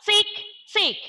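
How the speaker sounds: crisp ticking clock sound. Shown as a demonstration. Teacher ticking like a clock for the class. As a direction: tick like a clock. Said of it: "say the clock".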